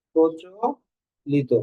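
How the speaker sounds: প্রচলিত drawn out slowly, each syllable weighted; slow stressed answer. Shown as a demonstration. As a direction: spell out প্রচলিত slowly for the class. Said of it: "প্রমিত মানে কি?". (ধীরে জোর দিয়ে প্রচলিত)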